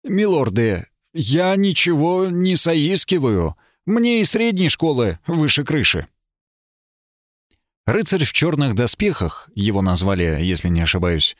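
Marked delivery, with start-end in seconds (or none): 0.0-6.1 nervously steady. A narrator's reading. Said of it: "стараясь не заикаться".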